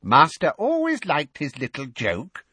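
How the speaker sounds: high, loud obsequious voice; fawning elf. Acted. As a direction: flatter the master in an elfish squeak. Bowing elf flatters master.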